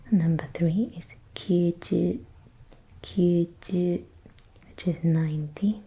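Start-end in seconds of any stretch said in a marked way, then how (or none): 1.3-5.8 stiff robot voice pronunciation. Real, not acted. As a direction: say kyuju like a careful robot. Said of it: "I sound like a robot".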